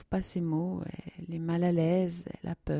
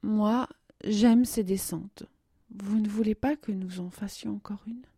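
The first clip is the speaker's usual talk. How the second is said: blushing; 5 semitones higher, 3 dB louder than usual. Acted. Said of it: "dit-elle en rougissant".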